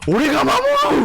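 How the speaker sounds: loud anime hero vow; earnest determined anime hero. Retold or imitated. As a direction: declare it like a shonen protagonist. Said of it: "막 이런 거 있잖아".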